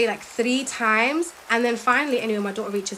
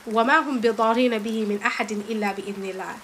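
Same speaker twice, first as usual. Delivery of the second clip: rapid Quran recitation; fast Arabic verse reading; much faster than usual. Shown as a demonstration. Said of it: "where Allah subhanahu wa ta'ala says".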